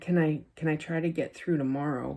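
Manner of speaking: mock-sad, low energy. Retelling what they said when asked about next week, retelling a sad, low-energy plea. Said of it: "I said it like so sad".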